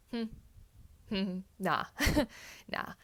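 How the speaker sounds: giggly hmm, nah, half-refusing through a laugh; laughing refusal. Retold or imitated. Mother laughing off the doctor's cesarean call, giggling. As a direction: laugh it off like it can't be serious.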